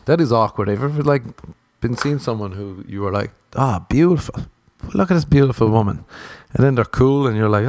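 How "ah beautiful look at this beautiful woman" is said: higher-pitched smitten admiration; mock-smitten, raised pitch; admiring. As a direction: coo over a gorgeous stranger. Acts out admiring someone new.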